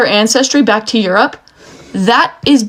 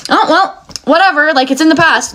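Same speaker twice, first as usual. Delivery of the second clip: airy, higher mock shrug of the past; mock dismissive; 5 semitones higher than usual. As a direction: imitate people brushing it off. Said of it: "The people are like".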